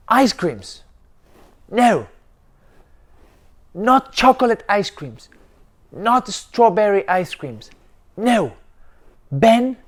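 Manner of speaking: loud, high stubborn shouting; angry yell. Acted. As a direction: refuse it at the top of your voice. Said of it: "And Ben yelled".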